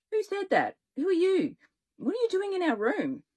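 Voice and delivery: high, alarmed questions; startled high voice. A narrator's reading. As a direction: pitch up in alarm. Startled kid demands answers.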